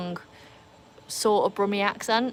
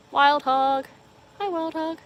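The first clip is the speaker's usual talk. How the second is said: excited greeting; 7 semitones higher, 6 dB louder, slower than usual. Real, not acted. Greeting a viewer.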